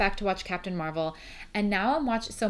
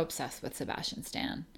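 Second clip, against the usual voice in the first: whisper; 5 semitones lower, 9 dB quieter than usual. Real, not acted. Confessing a crush.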